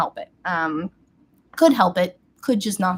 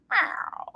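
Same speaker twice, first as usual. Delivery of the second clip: mock meow; 12 semitones higher, 4 dB quieter than usual. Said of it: "she'll go".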